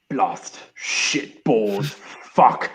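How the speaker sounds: slow, muttering Boris voice; imitating Boris Johnson. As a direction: grumble it slowly like a rueful Boris. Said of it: "looking at Europe going".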